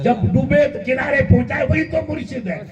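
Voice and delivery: full-force preaching; preaching shout. Real, not acted. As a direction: lift the voice to the crowd.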